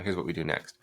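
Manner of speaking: confident and direct, leading the way; assured. Shown as a demonstration. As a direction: state the next step like it's settled. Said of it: "just notice the difference in tone and vibe".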